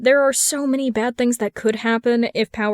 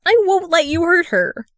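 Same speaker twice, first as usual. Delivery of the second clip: higher, louder fierce threat; fierce defiance; 8 semitones higher, 5 dB louder than usual. A narrator's reading. Darling fiercely warning the wizard off Briar. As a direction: stand firm against him.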